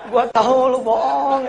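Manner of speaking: mother laughs as she catches her son's fib; laughing mother. Retold or imitated. Mother laughs at her son's fib, loud and high. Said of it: "dia ngomong".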